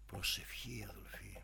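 voiceless, hushed whisper; whispered key word to the brethren. Acted. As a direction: let the word prayer fall to a whisper. Naming prayer as the answer.

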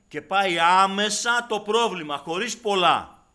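high, loud sermon voice; fiery preaching. Acted. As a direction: preach it at full force. Preaching at full force. (κήρυγμα με πάθος, δυνατά)

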